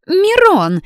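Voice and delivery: very high, loud outraged shout; outraged cry. Acted. Blonde shouting the brother's name, outraged. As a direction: shriek his name in outrage. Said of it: "девица возмутилась".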